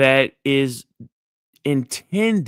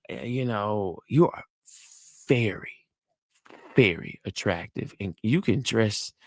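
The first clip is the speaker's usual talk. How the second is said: flirting compliment; 3 semitones lower than usual. Shown as a demonstration. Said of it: "enthusiastic smile and energy".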